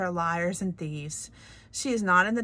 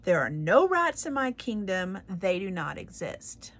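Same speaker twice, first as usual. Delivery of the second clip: louder furious royal shout; shouting king; 6 dB louder than usual. Acted. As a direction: shout him down with hands over ears. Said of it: "he shouted".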